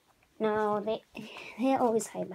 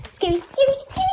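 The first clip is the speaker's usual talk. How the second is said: laughing; 13 semitones higher, 9 dB louder, faster than usual. Real, not acted. Laughing while saying it.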